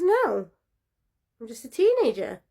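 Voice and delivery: high, loud, panicky denial; frightened girl. Acted. Frightened girl insists to the creature she's no witch. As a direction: blurt it out high and scared.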